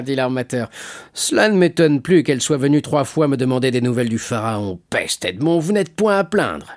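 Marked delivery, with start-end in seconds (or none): 1.1-6.7 lively, swooping teasing voice; teasing shipowner. Acted. Shipowner teases Edmond about his sweetheart, teasing. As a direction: tease him with an admiring swing at the end.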